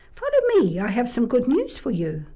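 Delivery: high, bright fairy calling. Acted. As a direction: sing it out like a beckoning fairy. Fairy beckons old man.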